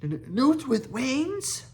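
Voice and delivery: high, stuttering outraged dragon squeak; little dragon outraged at being called a newt; indignant repeat. A narrator's reading. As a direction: squeak it out, deeply offended. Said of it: "repeated Toothless".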